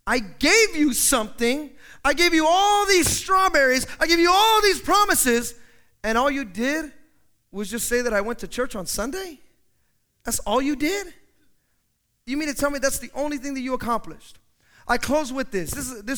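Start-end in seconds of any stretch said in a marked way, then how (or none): 0.1-5.5 loud, slow and higher, the master berating his servant; angry master. Acted. Master scolds his lazy servant, loud and indignant. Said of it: "the master says". 6.0-14.4 disbelieving questions, rising at the ends; incredulous master. Acted. Master questions the servant, incredulous. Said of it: "the master says".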